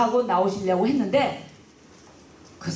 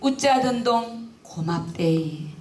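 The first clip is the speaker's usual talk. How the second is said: put-on slow, high, trembling old mother's plea; a hint of a frail old mother, slow and high; tearful old mother; 5 semitones higher, slower than usual. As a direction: speak as a dying mother asking forgiveness, nearly singing. Dying mother thanks daughter-in-law.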